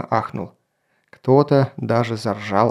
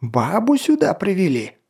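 higher bellowing captain; roaring; 6 semitones higher than usual. Acted. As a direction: roar the accusation. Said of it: "заревел он".

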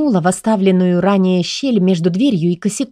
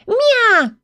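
громкое мяуканье повыше; мяукнуть, дразня стражу; высокий кошачий мяв. Acted. (кошка дразнит стражу: высокое громкое «мя»)

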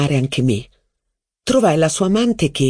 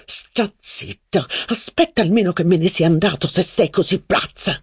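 angry exclamation; 3 semitones higher than usual. Acted. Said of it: "esclamò Robert".

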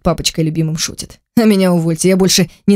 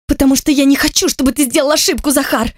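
put-on higher pleading young sister voice; sister's voice; 8 semitones higher than usual. A narrator's reading. Frightened sister Lera pleading with her brother, higher. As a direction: voice the scared sister, pitched up.

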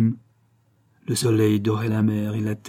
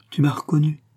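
anxious tenderness; 4 semitones higher than usual. Acted. Martial presses the girl again, tender and anxious. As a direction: ask again with worried tenderness. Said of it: "avec une sorte de tendresse inquiète".

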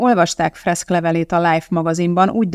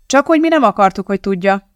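quick, high, louder snap-back; firm retort; 4 semitones higher, 5 dB louder than usual. Acted. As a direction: cut him off decisively. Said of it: "vágta rá határozottan Wilson". (határozott, gyors visszavágás)

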